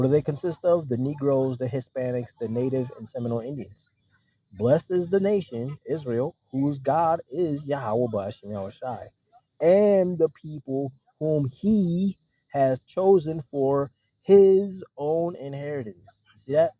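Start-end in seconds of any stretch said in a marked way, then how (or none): 4.5-16.2 slow, solemn reading of the verse; scripture reading. Acted. Preacher reading a psalm to his listeners, slow and solemn. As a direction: read it out like holy writ, drawn out.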